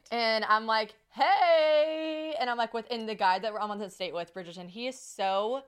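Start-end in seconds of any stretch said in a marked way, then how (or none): 1.1-2.3 loud, high drawn-out hello; awkward greeting. Retold or imitated. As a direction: stretch out a mock cheery greeting.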